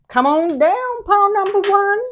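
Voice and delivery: high, loud game show call; game show host. Pretend. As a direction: announce it like a host.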